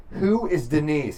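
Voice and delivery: high, slow mock accusation; accusing. Girlfriend finds a cocktail napkin, mock accusing. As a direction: draw it out like a suspicious girlfriend. Imagined girlfriend confronting cheating magician.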